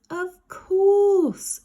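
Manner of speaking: high, loud agreeing creature voice; eager Slime. Acted. Slime agreeing with Ned, high and loud.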